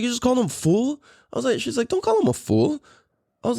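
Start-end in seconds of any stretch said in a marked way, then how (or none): 0.0-1.0 mom confused. Retold or imitated. Girlfriend questions calling son fool. 1.9-2.8 mom scolding. Retold or imitated. Girlfriend scolds calling son fool.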